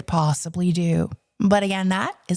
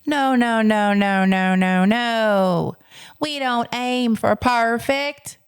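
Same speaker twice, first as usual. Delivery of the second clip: emphatic teacher correction; 2 semitones higher, slower than usual. Retold or imitated. Teacher correcting child's wish for perfection.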